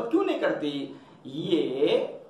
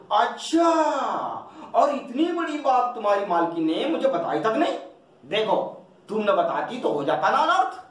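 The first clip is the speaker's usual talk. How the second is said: astonished master; 3 semitones higher than usual. Acted. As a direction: feign shock at hearing the news. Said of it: "इतने अवाक होकर कहते".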